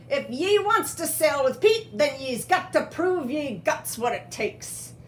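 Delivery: pirate parrot. Acted. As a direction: lay down the rules as a pirate's parrot. Parrot speaking pirate talk.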